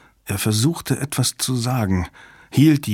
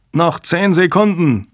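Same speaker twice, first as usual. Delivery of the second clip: urgent, higher-pitched narrated shout; shouted warning; 6 semitones higher, 3 dB louder than usual. A narrator's reading. Someone in the crisis room shouts the countdown warning. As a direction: call out the time left in a raised voice. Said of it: "schrie jemand".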